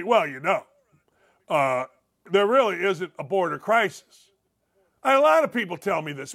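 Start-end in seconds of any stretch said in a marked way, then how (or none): 0.0-4.3 lightly voiced dim skeptic, lower and hesitant; mock a hesitant know-it-all in a lowered voice; imitated moron. Host quoting some moron on the border, mildly mocking. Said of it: "I actually had some moron tell me".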